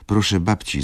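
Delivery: a hint of a child calling grandma; little girl calling. A narrator's reading. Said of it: "zawołała". (lekko dziecięce zawołanie)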